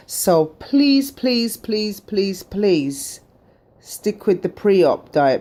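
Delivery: pleading. Real, not acted. Begging viewers to stick.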